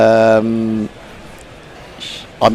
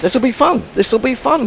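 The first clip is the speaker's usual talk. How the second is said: sarcastic; 10 semitones higher than usual. Real, not acted. Ironic about long day.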